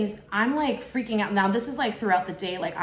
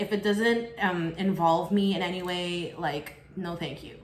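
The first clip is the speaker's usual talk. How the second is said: tuned out. Retold or imitated. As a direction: mimic his unbothered brush-off, trailing down. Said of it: "he just really just tunes it out".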